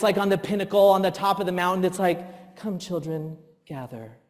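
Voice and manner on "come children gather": softer, gently mock-saintly; patient dad. Dreaming of being the ideal dad, soft and gentle. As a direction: soothe like an ideal patient father. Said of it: "I wanna be that dad".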